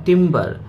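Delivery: "टिम्बर" in two beats, tim-bar; syllable by syllable. Shown as a demonstration. Teacher showing learners two syllables, "टिम्बर" split tim-bar. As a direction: sound out both halves of "टिम्बर". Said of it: "एक है टिम और दूसरा है बर".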